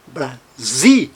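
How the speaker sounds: Brasil broken off as "bra... ZI"; stressed syllable shown. Shown as a demonstration. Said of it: "A sílaba tônica está no".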